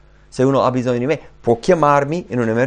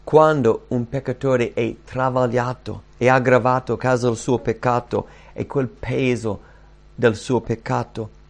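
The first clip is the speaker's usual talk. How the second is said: ordinary delivery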